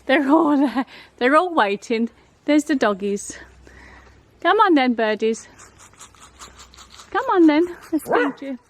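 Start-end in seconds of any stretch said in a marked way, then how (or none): 4.4-8.6 high, loud coaxing call; coaxing a wild bird. Real, not acted. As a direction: coax the birds in, high and loud. Calling birds, loud and high.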